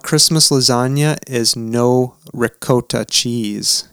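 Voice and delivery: bad Italian accent, slowed down. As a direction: ham up a terrible Italian accent. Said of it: "Your Italian accent is terrible".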